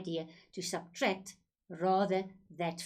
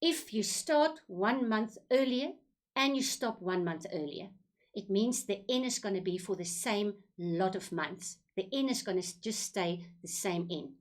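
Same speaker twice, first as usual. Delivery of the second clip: slow it down for the learners; deliberate teacher's explanation in spaced-out phrases; slow, careful repeat. Shown as a demonstration. Maths teacher going over early payments once more, slowly. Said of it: "I'm gonna go say it slowly again".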